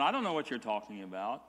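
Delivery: quick, offhand denial, playing dumb; mock innocent shrug of a denial; feigned ignorance. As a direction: brush it off fast like you know nothing. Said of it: "so he just played ignorant".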